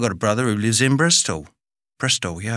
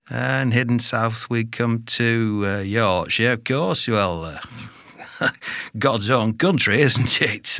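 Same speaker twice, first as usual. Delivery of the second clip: put-on Yorkshire accent. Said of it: "have a stab at most British accents".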